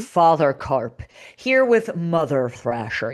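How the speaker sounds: low, slow mock announcer voice; deep slow podcast host voice. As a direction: say it low and dragged out. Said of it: "You have to say it like that".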